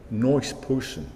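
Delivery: "nice person" with nice as noice, New York accent; slow New York accent on nice person. Shown as a demonstration. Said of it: "you say it in a New York accent".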